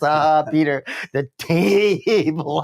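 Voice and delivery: very slow, stretched "table"; imitating drawn-out line. Quoting a listener's comment on the actor, very drawn out. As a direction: drag out "the table" like the actor did. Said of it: "I can't do it the way he does it".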